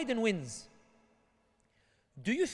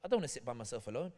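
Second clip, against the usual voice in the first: mock lament; 6 semitones lower, 4 dB quieter than usual. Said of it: "you're sitting here going".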